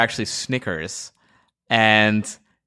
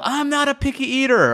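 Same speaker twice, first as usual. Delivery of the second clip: mock yell. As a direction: yell it out over the body. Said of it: "then you yell".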